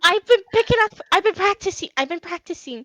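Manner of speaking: high, nervous, eager maid voice pleading to try again; a timid maid begging for another chance; anxious maid. Acted.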